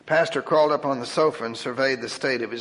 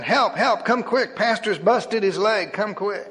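frantic scream; 6 semitones higher than usual. Acted. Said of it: "screamed frantically".

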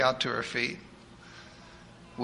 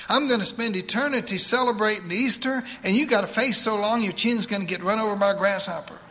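put-on higher, fast voice of a bossy old churchwoman; eager church lady; 5 semitones higher, 3 dB louder than usual. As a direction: rattle it off like a pushy saint. Edith rejoices about heaven.

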